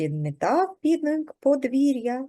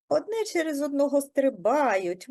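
ordinary delivery

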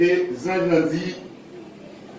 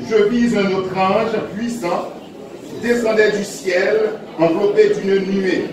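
solemn reading of scripture. Acted. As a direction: read the verse out to the congregation. Reads Revelation chapter ten.

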